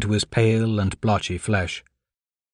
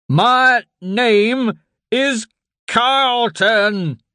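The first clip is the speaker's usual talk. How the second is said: high, slow roar, much louder; 12 semitones higher, 5 dB louder, much slower than usual. Acted. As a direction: bellow his name in a frenzy. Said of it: "Hal roared".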